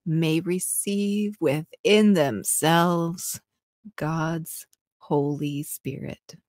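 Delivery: slow seductive reading; sexy voice. Pretend. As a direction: draw the words out sultrily. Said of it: "in a sexy voice".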